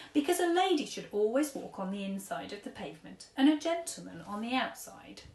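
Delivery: lightly voiced fussy old gent; old-fashioned gentleman. Old tramp paying at café, lightly voiced fussy gent. Mister Stink explains manners.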